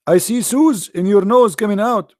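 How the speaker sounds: high, insistent mother voice; mother's voice. Retold or imitated. Mother voiced in childhood story.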